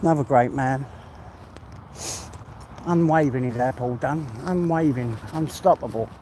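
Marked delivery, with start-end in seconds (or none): 2.8-6.1 talking while out of breath; breathless from the walk. Real, not acted. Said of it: "I'm a bit out of breath now".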